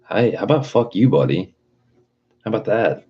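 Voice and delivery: sass the seller back, half laughing; mock telling off. Ranting buyer mock-snaps back at rude eBay seller, laughing.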